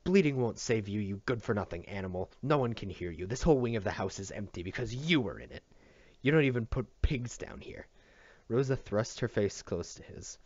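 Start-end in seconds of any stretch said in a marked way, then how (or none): 0.0-7.9 raging. Acted. Rosa raging at Matt.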